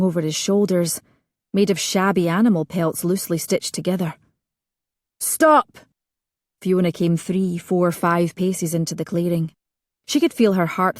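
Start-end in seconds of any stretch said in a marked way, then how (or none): 5.2-5.8 sharp, high, loud command; loud imperative. A narrator's reading. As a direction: halt them with one word. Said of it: "made her voice loud and imperative".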